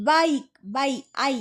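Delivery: বাইক with a full "eye" vowel; long I sound. Shown as a demonstration. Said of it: "আই উচ্চারণ হচ্ছে". (বাইক-এ আই অক্ষরের নামের মতো)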